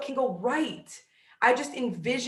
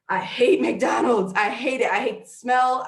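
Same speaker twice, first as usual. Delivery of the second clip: laughing rant; 5 dB louder than usual. Real, not acted. Ranting about McDonald's.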